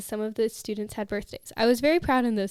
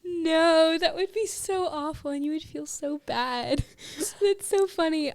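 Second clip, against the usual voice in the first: dismayed surprise; 6 semitones higher, slower than usual. Real, not acted. Reacting to embarrassing story.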